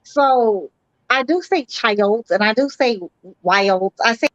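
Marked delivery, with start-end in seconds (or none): 1.7-2.3 put-on "child" drawn out with an added syllable; extra syllable. Shown as a demonstration. Defending her speech to the others, "child" with an extra syllable. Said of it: "you add a syllable to words". 3.4-3.9 "wild" drawn out with an added syllable; extra syllable. Shown as a demonstration. Defending how she talks, "wild" with an extra syllable. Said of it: "you add a syllable to words".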